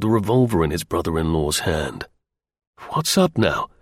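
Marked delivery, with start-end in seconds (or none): 2.9-3.7 higher-pitched, startled question; jerky demand. A narrator's reading. Terry seeing his brother-in-law's revolver, demanding jerkily. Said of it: "he demanded jerkily".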